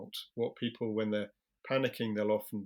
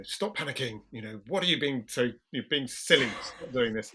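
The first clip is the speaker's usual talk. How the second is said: a touch of impatient scolding; mock aggressive scolding; 3 semitones higher, 5 dB louder than usual. Well-meaning helper scolding a panicking person, mildly harsh. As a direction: snap at them lightly, half-mocking. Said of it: "in a slightly aggressive way".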